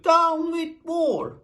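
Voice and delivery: high loud slow hooting cry. A narrator's reading. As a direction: hoot it out earnestly. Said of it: "And he hooted".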